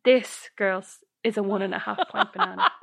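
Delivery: a touch of solemn, laughing through it; mock serious Mary. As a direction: announce the banana gravely. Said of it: "looks so serious".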